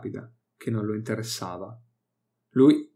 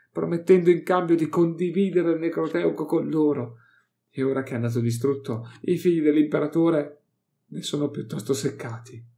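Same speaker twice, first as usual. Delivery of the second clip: higher, louder, impatient explaining; scornful scholar; 5 semitones higher, 3 dB louder than usual. Acted. Archeoxenologist scorns the Inquisitor's ignorance, loud and high. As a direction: bark out the obvious at fools.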